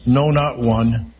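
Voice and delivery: each word slow and weighted, "no, not one" spaced out; slow emphatic no. Shown as a demonstration. Preacher stressing scripture to congregation, slow emphatic. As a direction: let "no" land, then "not one" slowly. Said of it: "It's very emphatic".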